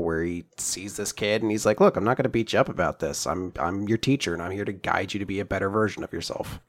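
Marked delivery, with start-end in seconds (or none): 1.8-6.6 gentle teacher reassurance. Retold or imitated. Voices teacher reassuring a kid.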